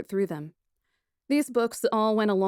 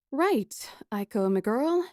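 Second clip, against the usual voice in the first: cheery; 2 semitones higher, slower than usual. Acted. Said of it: "I said cheerily".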